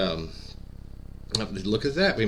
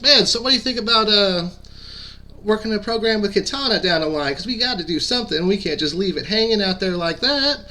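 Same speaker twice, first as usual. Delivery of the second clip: imitating a Southern redneck twang, higher, quick and eager; Chris's redneck twang; 8 semitones higher than usual. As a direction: pitch a plan in a high redneck twang. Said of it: "he's got a kind of a redneck twang to his voice".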